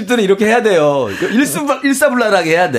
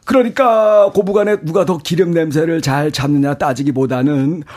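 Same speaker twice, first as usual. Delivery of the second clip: switched voice; 4 semitones lower than usual. Acted. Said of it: "네 목소리 이렇게 왔다 갔다".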